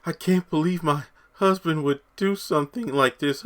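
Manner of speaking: high-pitched mock dismay; feigned shock. Vlogger imitating Victoria's fake distress at the podium, feigned shock. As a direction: put on a theatrical, high-voiced show of disbelief. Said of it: "like an entire act".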